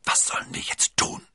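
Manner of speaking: breathless unvoiced whisper. A narrator's reading. D'Artagnan whispering fearfully to his friends. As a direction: barely breathe the question. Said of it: "flüsterte D'Artagnan".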